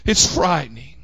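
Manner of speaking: "frightening" dropped low and soft. Shown as a demonstration. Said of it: "Is that better?".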